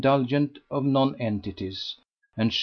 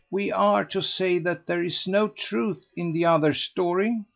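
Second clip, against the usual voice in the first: lightly voiced, higher, urging; anxious gossip; 6 semitones higher than usual. A narrator's reading. Lady Busshe keeping Mr Dale seated, urging. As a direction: hold everyone together eagerly.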